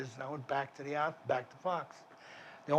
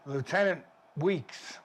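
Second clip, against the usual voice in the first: slow careful naming; 2 semitones higher, slower than usual. Shown as a demonstration. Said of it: "W E E K S".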